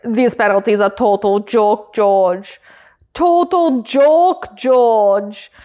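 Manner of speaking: imitated German-accented team boss. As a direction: put on a drawn-out German accent. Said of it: "was that a German accent".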